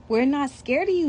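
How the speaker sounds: a hint of a kid's taunting hoot; lightly voiced playful dare. Beto teasing the skeletons, mild hooting. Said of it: "hoots Beto".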